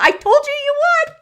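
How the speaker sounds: I told you so, nearly squealing; gleeful told-you-so. Real, not acted. Host teasing a freaked-out viewer: high, loud gleeful crow.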